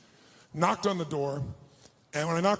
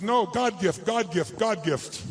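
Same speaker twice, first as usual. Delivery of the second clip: imitated grateful insistence; 2 semitones higher, 3 dB louder, much slower than usual. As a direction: play an overjoyed woman who insists.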